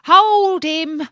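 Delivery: a water rat shrieking to the straw; rat's cry. Acted. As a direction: keep yelling after the fleeing boat. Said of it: "as he cried to the chips".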